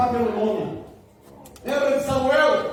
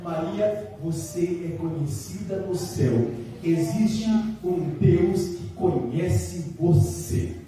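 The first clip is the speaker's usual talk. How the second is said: gentle calling; 5 semitones lower, much slower than usual. Shown as a demonstration. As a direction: tell her gently she is known in heaven. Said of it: "ele tá dizendo assim".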